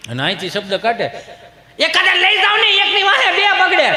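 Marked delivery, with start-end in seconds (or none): 1.8-3.9 very high, raised complaining voice; mother calling out. Acted. Mother calling for someone to take kids, high holler. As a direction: holler across the house in mock exasperation. Mother calls out about children.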